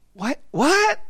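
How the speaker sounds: high, rising retold disbelief; mock surprise. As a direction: play up being baffled by the remark. Acts out his baffled reaction.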